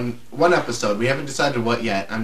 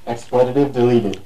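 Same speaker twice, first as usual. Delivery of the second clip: mock announcer; 4 dB louder than usual. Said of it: "record myself saying".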